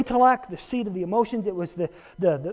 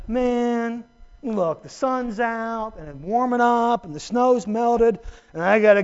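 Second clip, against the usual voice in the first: mock reluctant believer griping about serving Jesus; grumbling reluctance; 3 semitones lower, slower than usual. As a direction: whine like someone dragged to serve. Acting out a reluctant churchgoer.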